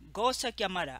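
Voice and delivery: put-on light take on her accent; a singer's accent. Reading out an insult from her post, lightly accented. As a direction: put a touch of the singer's accent on it. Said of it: "I will do that in that accent".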